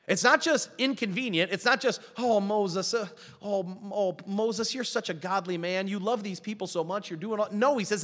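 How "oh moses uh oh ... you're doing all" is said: gushing praise, softening as it goes; mock fawning. Preacher imitates a flatterer admiring Moses, mock fawning. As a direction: play an admirer sighing over someone.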